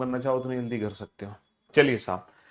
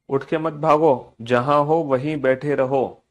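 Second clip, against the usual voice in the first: slow and emphatic, word by word; slow, firm order; 3 dB louder, slower than usual. Real, not acted. Teacher tells pupils to stay seated, slow firm order. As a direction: spell out the order slowly, louder on भागो. Repeats the order slowly and firmly.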